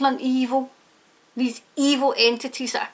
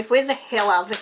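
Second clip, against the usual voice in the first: real anger; 3 semitones lower than usual. Real, not acted. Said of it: "I sound angry".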